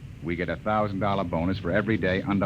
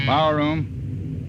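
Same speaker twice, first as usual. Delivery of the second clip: slow, raised call into the intercom; drawn-out call; 6 semitones higher, much slower than usual. Acted. Captain calling the power room, slow and raised. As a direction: stretch it out to reach the crew.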